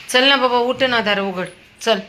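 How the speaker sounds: high, loud coaxing of the dog; coaxing call. Real, not acted. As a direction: plead with him to come, voice up high. Pleading with dog. (लाडिक मोठी हाक)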